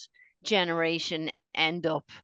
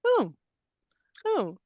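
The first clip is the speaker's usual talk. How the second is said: amazed whoa; 9 semitones higher, slower than usual. Retold or imitated. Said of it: "I frequently would go".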